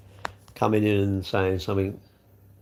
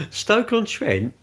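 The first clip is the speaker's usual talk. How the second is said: "Stoke-on-Trent?" slow and much higher, falling at the end; incredulous repeat; 11 semitones higher, 3 dB louder, much slower than usual. Real, not acted. Streamer repeats the viewer's town in disbelief. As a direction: echo "Stoke-on-Trent" back as if you can't believe it.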